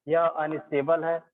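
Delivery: slow, drawn-out words for note-taking; slow dictation. Real, not acted. Teacher writing out the point for the class, slow dictation. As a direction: dictate it slowly, word by word.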